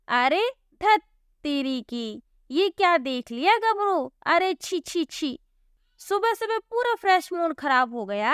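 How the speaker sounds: a lightly voiced rude milkman, sneering; disgusted milkman. Milkman Gabru insults Divya at the door, sneering. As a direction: recoil in mock disgust at the sight.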